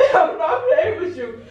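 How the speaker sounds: trying to stay serious but cracking; the stern line collapsing into laughter; laughing through it. Real, not acted. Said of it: "Stop trying to make me laugh".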